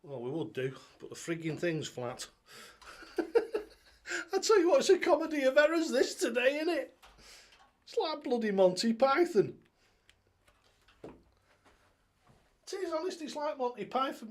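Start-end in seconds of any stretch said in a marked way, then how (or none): 3.2-14.3 high, loud giggling talk; real laughter breaking through the words; laughing through words. Real, not acted. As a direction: laugh it out, amused at the mess. Laughing at his flat tablet.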